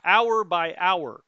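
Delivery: strained, failing voice; losing voice. Real, not acted. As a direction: push through a voice that's going. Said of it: "I'm losing my voice".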